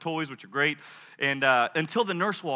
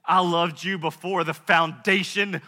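impassioned declaration; 7 dB louder, much slower than usual. Acted. God declares eternal love.

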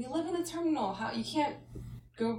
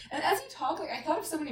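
laughing; 8 semitones higher, faster than usual. Real, not acted. Laughing while talking.

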